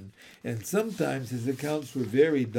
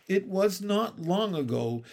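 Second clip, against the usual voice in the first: higher, musing storyteller's opening; brooding storytelling; 4 semitones higher than usual. A narrator's reading. Nanny beginning a tale for the children, brooding storytelling. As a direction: begin a tale as if lost in memory. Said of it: "in a brooding, storytelling voice".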